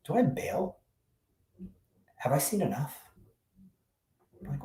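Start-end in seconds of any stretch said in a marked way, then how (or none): 0.1-3.0 high, hushed inner voice; inner thought. Retold or imitated. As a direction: wonder quietly to yourself whether to leave. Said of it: "I'm thinking to myself".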